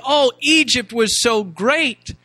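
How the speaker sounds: mock their longing for the old days; slow, hammed-up fond reminiscing; mock nostalgic gushing. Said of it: "looked back and they said".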